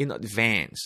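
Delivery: advance stressed on second syllable, vance. Pronunciation drill of English phrases, stress on second syllable of advance. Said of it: "A의 강세가 있죠. 두 번째 음절 A".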